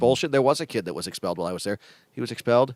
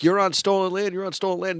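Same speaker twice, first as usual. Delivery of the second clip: raised-pitch imitation of protesters; mock chant, higher but not truly yelled; retold yelling; 8 semitones higher than usual. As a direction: imitate someone calling out an accusation. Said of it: "that was yelling something".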